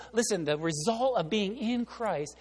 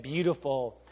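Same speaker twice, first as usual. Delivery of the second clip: scheming glee; 5 semitones lower, 4 dB quieter, slower than usual. Retold or imitated. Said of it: "And she said".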